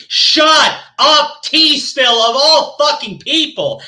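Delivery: fed-up angry retort. Real, not acted. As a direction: snap it at them. Angry rant at channel.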